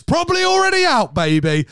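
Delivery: held high falsetto squeal. Acted. To the co-host about the film, a held falsetto squeal. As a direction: sing it out high like a diva.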